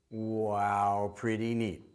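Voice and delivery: low, wondering wow, pretty neat; amazed wow. Shown as a demonstration. Praising a child after the beep, amazed. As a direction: sound delighted for the child.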